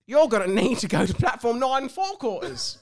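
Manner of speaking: official voice. Acted. Gaxley speaking.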